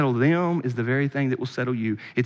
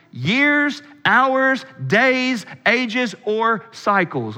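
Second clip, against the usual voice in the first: emphatic sermon reading; 6 semitones higher, 4 dB louder than usual. Real, not acted. Preacher reading a commentator on God's eternity, emphatic preaching. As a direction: read it out like a proclamation.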